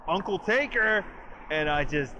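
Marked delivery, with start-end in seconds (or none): 0.1-1.0 loud, high mock holler; imitated over-the-top yell; exuberant exaggerated shout. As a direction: belt it out with exaggerated glee. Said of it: "Big E just lets out this".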